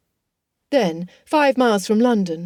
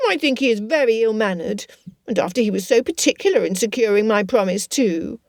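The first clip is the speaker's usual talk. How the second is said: pouting Lydia. Acted. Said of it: "Lydia's pout was audible".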